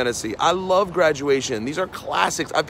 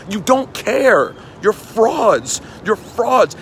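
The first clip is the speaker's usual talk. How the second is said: heated scolding; 4 semitones higher, much slower than usual. Real, not acted. Ranting at hip-hop journalists.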